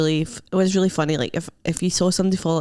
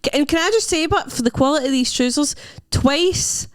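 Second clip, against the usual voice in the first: mock indignant praise; 5 semitones higher than usual. Real, not acted. Mock outrage praising trousers.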